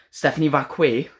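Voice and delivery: Stephanie Vacquet? repeated in disbelief, rising; a mildly scoffing repeat of Stephanie Vacquet; incredulous echo. Real, not acted. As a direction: echo Stephanie Vacquet like you can't believe it. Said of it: "did you just read her name off a piece of paper?".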